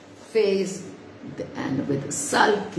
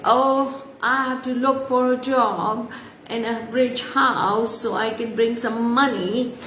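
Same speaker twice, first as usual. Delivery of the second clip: put-on higher-pitched girl's reply; a touch of a young girl explaining herself; lightly acted girl, pitched up; lightly voiced story girl; 4 semitones higher than usual. Story girl answers the tree.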